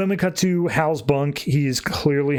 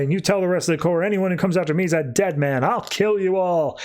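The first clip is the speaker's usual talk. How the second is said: manic villain threat; 5 semitones higher than usual. Retold or imitated. Hal gloating at the fleeing Corps, lightly voiced manic threat. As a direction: gloat at them as they run, climbing higher.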